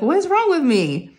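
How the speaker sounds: high-pitched embarrassed wail; mock self-reproach. Recalling feeling so uncomfortable at the vet, mock wail. Quotes own embarrassed thought.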